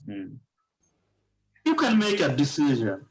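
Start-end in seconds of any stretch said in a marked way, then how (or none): 1.7-3.0 decision read out slowly in English; slow demo sentence. Shown as a demonstration. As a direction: spell the English sentence out word by word. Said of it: "আর ডিসিশন বলবো না". (ধীরে ধীরে ইংরেজি বাক্য)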